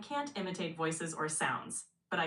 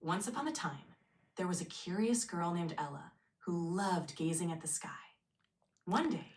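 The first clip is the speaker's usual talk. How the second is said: storytelling; 9 dB louder than usual. Pretend. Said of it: "be engaging and kinda like storytelling".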